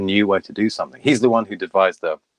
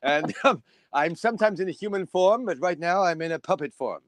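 high-pitched, eager puppet character; puppet self; 9 semitones higher than usual. Pretend. Puppet telling the interviewer about its house, high puppet voice. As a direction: play an excitable puppet version of yourself, pitched up.

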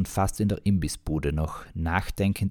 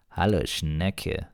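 loving; much slower than usual. Acted. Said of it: "begann er sehr liebesförmlich".

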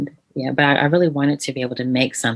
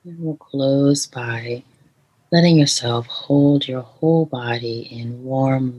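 guided meditation. Shown as a demonstration. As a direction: gently lead the listener into calm. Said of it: "Can we do one right now?".

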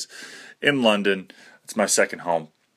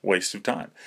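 a mild, softer thought voice; inner thought; 3 semitones lower, 7 dB quieter than usual. Retold or imitated. Thinking about the drunk guy at the door, softer inner voice. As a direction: say it like thinking to yourself. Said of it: "in my head, I go".

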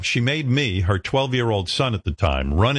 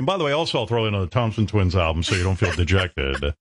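mock radio announcer; 3 semitones higher than usual. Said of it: "they were like".

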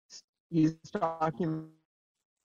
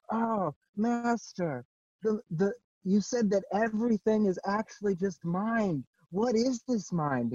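put-on questioner in a New York accent; 5 semitones higher than usual. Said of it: "like, a New York accent".

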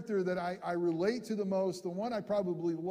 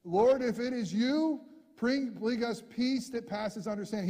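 Peter pleading; 3 semitones higher than usual. Acted. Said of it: "He doesn't say that".

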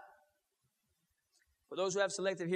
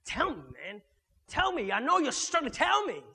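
mock pushy pastor. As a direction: nag someone to confess their struggles.

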